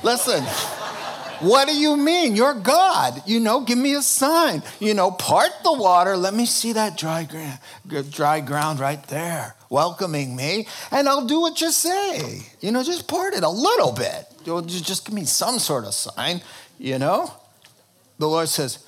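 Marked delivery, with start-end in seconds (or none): 0.0-1.4 panicky complaining priest. Acted. Preacher voicing himself at the river, frantic pleading. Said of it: "I would have said". 1.5-2.3 laughing. Acted. Laughs while playing scared priest. 2.3-17.3 panicky complaining priest. Acted. Preacher voicing himself at the river, frantic pleading. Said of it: "I would have said".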